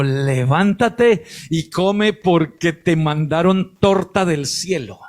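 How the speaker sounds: ángel más grave y lento; voz del ángel. Retold or imitated. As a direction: dilo pausado y grave, como un ángel que despierta. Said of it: "un ángel lo tocó y le dijo". (el ángel despierta a Elías, voz grave y lenta)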